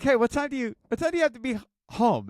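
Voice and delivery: high chirpy mom question. Retold or imitated. Mom brightly quizzing her son, high sing-song. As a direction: ask it brightly like an eager mom.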